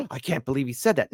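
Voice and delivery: hammed-up gasp, then mild disbelief; feigned astonishment; mock shock. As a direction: imitate a shocked onlooker with a sharp gasp. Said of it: "Everyone stop being shocked".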